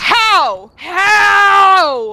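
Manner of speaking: very loud, disbelieving yell; drawn-out loud protest; incredulous shout. Real, not acted. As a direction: bellow How in outrage. Disbelief at losing the round.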